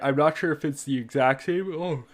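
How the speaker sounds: talking through a yawn; words stretched by a real yawn. Real, not acted. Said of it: "I'm yawning like crazy".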